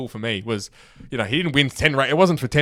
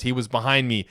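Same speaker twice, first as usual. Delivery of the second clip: lightly imitated Italian accent; 7 dB louder than usual. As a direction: put on a bit of Italian accent, hitting each push. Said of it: "he's on the strong Italian accent".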